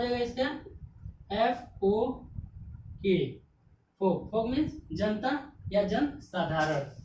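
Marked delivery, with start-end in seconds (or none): 4.0-4.3 फोक with the L dropped; silent L. Shown as a demonstration. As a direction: say फोक as "fok", no L sound. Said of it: "एल क्या हो गया".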